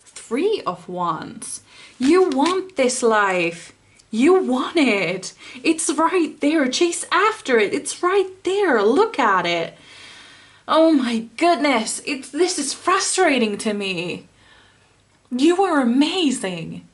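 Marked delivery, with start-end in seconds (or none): 2.0-13.6 rising anger. Real, not acted. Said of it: "God, I'm getting angry".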